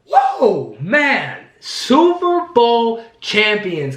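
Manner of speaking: high, slow, stretched-out cheer; elated shouting. Real, not acted. Fan reveling in the championship after the big yell, elated drawn-out cheer. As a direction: savor the win in long, high cries.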